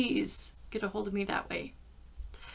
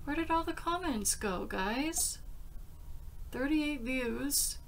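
puzzled; 5 semitones higher than usual. Real, not acted. Can't find the comments.

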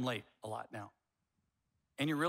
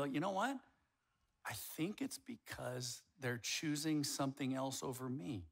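soft, slow self-questioning; quiet realisation; 6 dB quieter, slower than usual. Acted. Spouse working out why it hurts, quiet realisation. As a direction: think it through slowly, under the breath.

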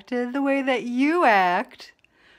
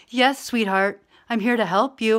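obliging partner. Acted. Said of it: "then you would just fucking say".

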